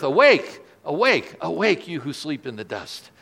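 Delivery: a rising call of awake, awake; mild mock shout. Pastor voicing the trumpet call to the dead, a mild ringing shout. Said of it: "a shout that echoes around the earth".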